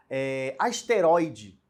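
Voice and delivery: asteroide drawn out slowly, syllable by syllable; slow word demo. Shown as a demonstration. Teacher reading asteroide slowly to the class. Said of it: "era uma paroxítona".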